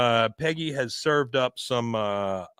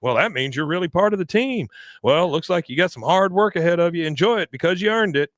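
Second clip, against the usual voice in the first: higher, proud mock pep talk; acted excitement; 6 semitones higher than usual. Recapper plays dad proud his son made the team, excitedly. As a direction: congratulate your son eagerly, pitch lifted. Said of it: "He was just excited that the coach knew".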